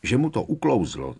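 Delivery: self-satisfied, lifted delivery; contented amusement. A narrator's reading. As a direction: sound pleased and amused. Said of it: "zasmál se spokojeně Fred".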